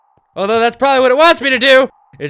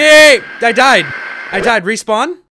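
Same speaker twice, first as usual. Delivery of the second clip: usual speaking voice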